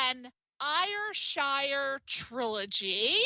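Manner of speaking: Ayrshire said slowly and carefully; careful pronunciation. Real, not acted. Host attempting an unfamiliar Scottish place name, Ayrshire said slowly and carefully. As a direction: draw out Ayrshire, sounding it out with care. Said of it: "I hope I pronounce this right".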